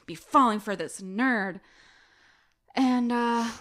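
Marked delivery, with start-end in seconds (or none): 0.0-1.6 disgusted. Retold or imitated. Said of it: "she's just disgusted".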